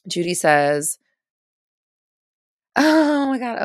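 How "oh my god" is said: delighted laugh through the words; real burst of laughter. Real, not acted. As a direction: laugh it out, caught off guard. Laughing reaction to viewer comment.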